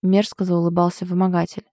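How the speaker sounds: ordinary delivery, nothing marked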